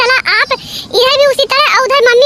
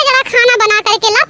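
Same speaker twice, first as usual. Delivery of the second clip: bossy order. Acted. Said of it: "यही बात mummy जैसे तुम बोल रही हो".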